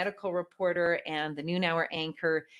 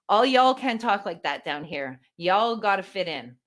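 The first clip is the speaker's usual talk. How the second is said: put-on Texan accent; 2 semitones higher, 6 dB louder than usual. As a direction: put on a mild Texas accent. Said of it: "You have an accent".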